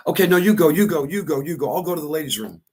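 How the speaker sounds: high, hurried voice of a flustered woman backing off; flustered lady. Retold or imitated. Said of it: "the lady turns around and goes".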